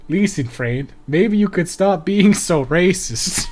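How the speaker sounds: slow, botched Scandinavian guy impression; bad Scandinavian accent. Player voicing a man objecting to racism, bad Scandinavian accent. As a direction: put on a hammy Scandinavian accent, drawn out. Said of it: "a bad, uh, Scandinavian guy impression".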